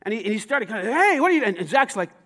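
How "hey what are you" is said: rough voice. Retold or imitated. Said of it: "talking in kind of a rough voice".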